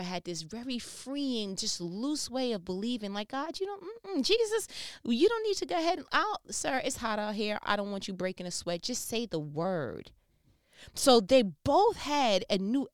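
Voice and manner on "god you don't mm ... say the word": the officer waving Jesus off kindly; casual Roman officer. Acted. Roman officer tells Jesus he needn't come, casually.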